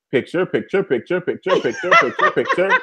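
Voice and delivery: repetitive chanted photo-snapping; imitating frantic photographer. Host acts out the reporter on the plane, chanting like a camera. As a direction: mimic a reporter snapping away.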